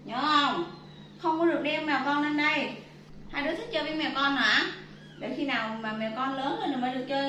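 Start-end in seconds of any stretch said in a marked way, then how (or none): 0.1-4.6 loud, firm telling-off; stern scolding. Real, not acted. Mother scolding her two kids for taking the kittens, loud and stern.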